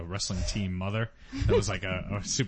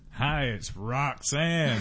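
lady voice; much slower than usual. Pretend. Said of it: "Is that your lady voice?".

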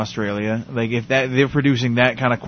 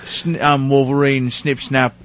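Wolverine impression; slower than usual. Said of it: "Is that what he sounds".

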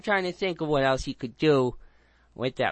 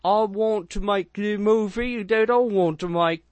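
higher, louder indignant insistence; mock-defiant artist declaring his vision, louder; indignant director; 5 semitones higher, 6 dB louder than usual. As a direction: put your foot down like a fed-up director. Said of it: "And he went".

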